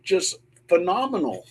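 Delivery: high excited call back. Retold or imitated. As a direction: urge them back in, thrilled. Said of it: "I go".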